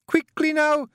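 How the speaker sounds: frantic Scottish shout. Acted. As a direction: yell down the hole. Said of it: "Jeanie shouted down the hole".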